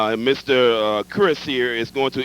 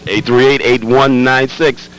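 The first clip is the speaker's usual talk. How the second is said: called out louder; 9 dB louder, slower than usual. Shown as a demonstration. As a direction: punch the number out loud. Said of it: "repeats the phone number louder".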